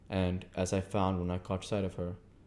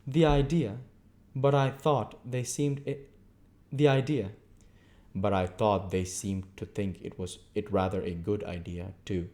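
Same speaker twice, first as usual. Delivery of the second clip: prim lady; 3 dB louder than usual. Acted. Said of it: "checking a yawn".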